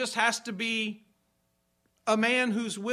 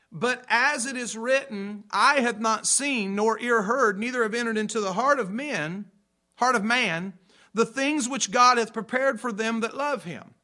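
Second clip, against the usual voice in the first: louder, measured King James reading; a louder, solemn Bible reading voice; scripture reading; 4 dB louder than usual. Acted. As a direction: proclaim the verse to the congregation. Reads Scripture aloud.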